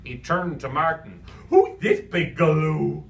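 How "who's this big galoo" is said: louder, silly Cockney clown voice; goofy Cockney clown. Acted. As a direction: play the daft Cockney clown. Clown Lou voiced by reader.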